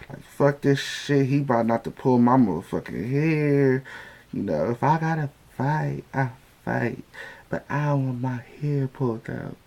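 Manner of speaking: playing Lawrence, who doesn't want his hair pulled; imitating Lawrence. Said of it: "this how he was".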